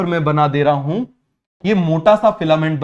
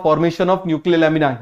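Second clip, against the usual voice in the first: slow dictation; much slower than usual. Shown as a demonstration. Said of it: "जल्दी से आप मुझे बताओ".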